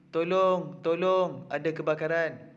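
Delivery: mildly alarmed, staged warning; demonstrated cry for help. Shown as a demonstration. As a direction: call out for help as a classroom example. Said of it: "tolong tu adalah menunjukkan perasaan takut".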